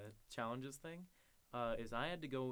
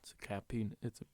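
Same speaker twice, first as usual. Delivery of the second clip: deep-voiced clerk; 4 semitones lower than usual. Imitated deep-voiced clerk answering.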